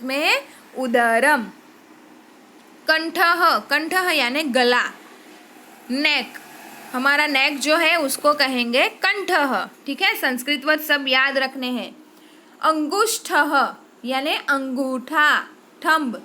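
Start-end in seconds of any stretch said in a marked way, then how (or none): 2.9-3.6 कंठः with an aspirated ठ and a breathed final h; careful Sanskrit pronunciation. Shown as a demonstration. Teacher models the word for neck to children, clearly enunciated. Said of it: "मैं जैसे pronounce कर रही हूँ". 12.6-13.5 अंगुष्ठः with a retroflex ष्ठ and a final breathy h; careful Sanskrit pronunciation. Shown as a demonstration. Teacher demonstrates the word for thumb for practice, carefully spoken. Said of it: "मैं जैसे pronounce कर रही हूँ".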